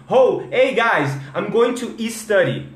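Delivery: chatty English with I added before "study"; learner's mistake. Shown as a demonstration. Teacher mimicking a learner's sentence, "study" with extra I. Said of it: "não é study".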